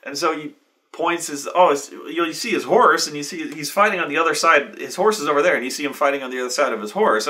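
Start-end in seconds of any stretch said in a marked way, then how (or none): none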